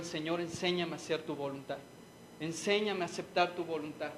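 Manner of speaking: choked quiet prayer. Retold or imitated. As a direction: barely get the prayer out, softly. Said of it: "tenía un nudo en la garganta".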